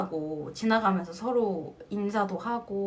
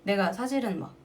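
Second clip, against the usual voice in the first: usual speaking voice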